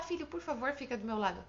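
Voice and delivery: mock-gentle request to a child; mild polite request. Shown as a demonstration. Parent asking a son to stay close, too mild. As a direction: ask mildly, letting the voice drop away. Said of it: "Você não vai falar".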